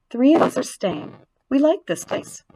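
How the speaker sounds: high little spider voice; small voice. A narrator's reading. Spiderlings tell Wilbur they are staying, small high voice. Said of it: "he heard a small voice".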